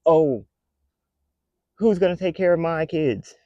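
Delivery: high mock whimper; lightly hammed-up pleading parent; mock crying complainer. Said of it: "people come to the internet crying about".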